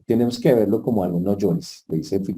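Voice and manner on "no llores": a firm, steady no llores. Retold or imitated. Jesus telling the widow firmly to stop crying. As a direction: say "No llores" with calm firmness, not harsh. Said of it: "con firmeza".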